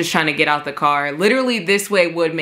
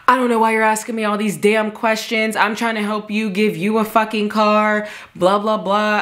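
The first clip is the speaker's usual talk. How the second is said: mock tirade, pitched up and quickened; retold angry rant; 4 semitones higher than usual. Man fed up with her questions, mock angry rant. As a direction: imitate a man ranting in exasperation.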